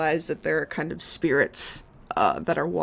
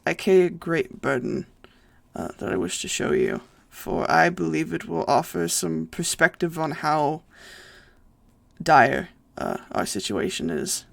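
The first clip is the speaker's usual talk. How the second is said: understated, solemn in-character speech; lightly voiced solemn death saint. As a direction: lightly play a burdened ancient saint, pausing often.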